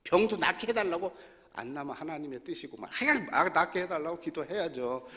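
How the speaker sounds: normal talking voice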